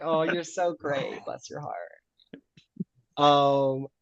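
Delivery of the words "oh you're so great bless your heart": catty sweetness. Acted. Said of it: "of catty".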